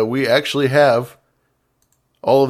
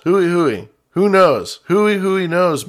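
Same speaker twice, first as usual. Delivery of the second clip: mock catchphrase; 6 semitones higher, 4 dB louder, slower than usual. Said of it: "it speaks like it involves balls".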